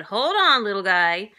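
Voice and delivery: high, sing-out call to a customer. A narrator's reading. Bakery lady to boy leaving with donuts, calling out. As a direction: call brightly after someone leaving.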